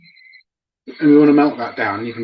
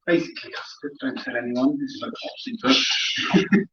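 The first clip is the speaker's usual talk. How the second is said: mock secret; 6 dB quieter than usual. Conspiratorial aside to viewers.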